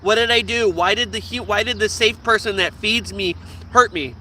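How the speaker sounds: acted confused pleading; mock panic. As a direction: plead like a hurt, panicked dog. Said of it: "has a panic and is like".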